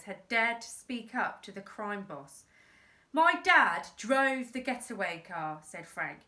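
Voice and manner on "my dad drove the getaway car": put-on defiant boy. Boy speaks up to boss.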